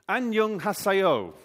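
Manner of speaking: high, slow, projected greeting; calling out. Shown as a demonstration. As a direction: spell it out loudly for the room. Calls out greeting for guessing game.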